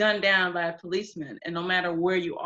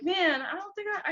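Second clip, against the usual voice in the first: mock doubtful whine; 12 semitones higher than usual. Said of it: "I was like".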